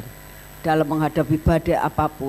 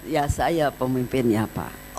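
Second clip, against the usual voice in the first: softer, slower, gentle answer; calm and smiling; 4 semitones lower, 4 dB quieter, slower than usual. Retold or imitated. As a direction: smile through the words, no harshness. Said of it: "saya terus senyum aja".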